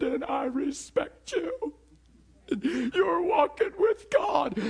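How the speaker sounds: high, slow tearful pleading; imitating dad crying. Pastor voicing his sobbing father's confession, slow and tearful. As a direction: let the voice break like weeping dad. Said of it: "and that's not like my dad".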